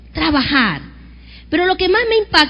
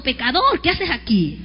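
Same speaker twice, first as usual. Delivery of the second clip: mock scornful accusation; 5 semitones lower than usual. Shown as a demonstration. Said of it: "Dígale que está a su lado".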